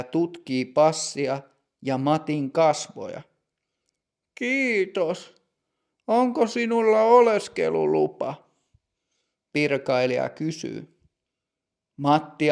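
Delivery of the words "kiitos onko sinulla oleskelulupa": put-on higher, measured voice of a strict older clerk; stern bank clerk. Older bank clerk greeting customer Matti, stern and higher.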